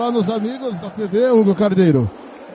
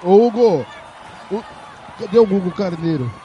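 shouting on bad phone line; 2 semitones lower than usual. Real, not acted. Calling the reporter on air.

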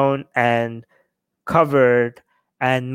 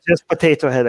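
Persian accent; faster than usual. Real, not acted. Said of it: "I love hearing this in the Persian accent".

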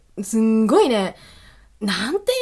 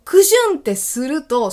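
a louder, higher "クシュン" with the weight on "ク"; stronger sneeze sound; 5 semitones higher, 4 dB louder than usual. Shown as a demonstration. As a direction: hit "ク" hard as the sneeze bursts out. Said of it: "その瞬間にね".

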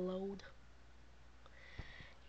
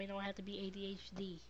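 quick hushed whisper; whispered aside; 10 dB quieter, faster than usual. Real, not acted. Mother to her live viewers, whispering the point. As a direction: drop to a whisper as if sharing a secret.

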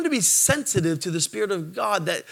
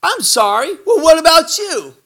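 higher, louder sweet woman's voice; the stranger texting back, coy and higher; flirty woman; 10 semitones higher, 8 dB louder than usual. Retold or imitated. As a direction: play her coy and sugary. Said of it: "And then she goes".

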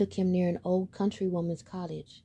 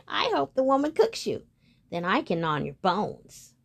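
gloating cat. Acted. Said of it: "the cat chirped in".

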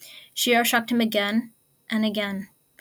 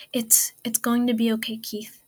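unsteady reassurance. Acted. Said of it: "His voice was not quite steady".

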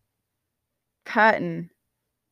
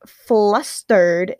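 "flustered" very slow and louder, syllables stretched; deliberate reread; 5 dB louder than usual. Real, not acted. Reader retries after stumbling, "flustered" stretched slowly. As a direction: spell out "flustered" by sound, slowly.

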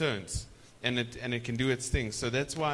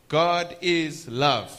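slow, loud "God is love"; emphatic repeat; 6 dB louder, much slower than usual. Real, not acted. Preacher driving the verse home: loud and slow. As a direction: preach it slowly and loudly. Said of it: "repeats for emphasis".

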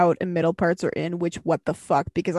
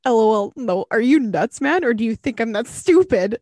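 scornful retort; 4 dB louder than usual. Retold or imitated. Retold scornful reply to scammer.

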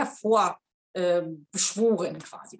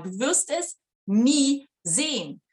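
slow, with "nie" leaned on hard; slow emphatic repeat; 3 semitones higher, slower than usual. Shown as a demonstration. Coach repeating her point to viewers, slow and emphatic on "nie". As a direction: drive the word "nie" home, deliberately slow. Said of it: "Ich wiederhole es nochmal".

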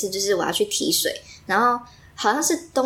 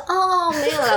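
smiling back; 8 semitones higher, slower than usual. Retold or imitated. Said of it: "我又笑回去".

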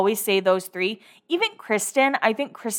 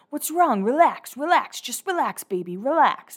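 mock soothing Brody; 5 semitones higher than usual. Imitating Brody soothing Jade.

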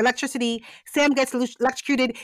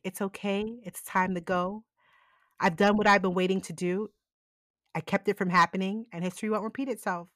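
soft farewell; 4 semitones lower, 6 dB quieter than usual. Retold or imitated. Dying Sam comforts Leo.

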